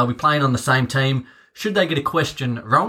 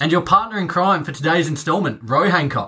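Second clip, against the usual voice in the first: game show host voice; 3 semitones higher than usual. Pretend. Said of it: "Your game show host voice is top notch".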